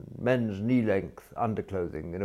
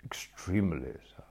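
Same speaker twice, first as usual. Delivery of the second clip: whispered; 3 dB quieter than usual. A narrator's reading. Jeeves's unvoiced reply.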